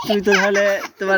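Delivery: fast words through laughter; laughing. Real, not acted. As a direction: laugh while speaking. Laughing at child's joke. (হাসতে হাসতে বলা)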